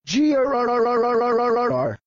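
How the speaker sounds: long rolling mock dinosaur growl; evil dinosaur growl. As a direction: growl like a cartoon monster turning evil. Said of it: "then I'll be turned into an evil dinosaur".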